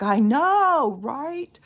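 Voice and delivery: high, loud burst of agreement; excited agreement. Retold or imitated. To her daughter who got chills, an excited high squeal.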